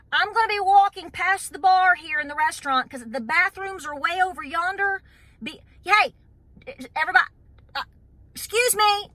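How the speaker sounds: high, loud over-the-top announcing of every step; loudly announcing yourself to strangers at a bar; mock loud announcement. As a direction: ham it up like a herald clearing the way. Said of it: "do you see how ridiculous that is".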